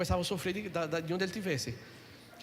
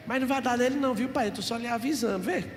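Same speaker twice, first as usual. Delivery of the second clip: aunt's warning; 4 semitones higher, 4 dB louder than usual. Retold or imitated. Aunt warns father after church.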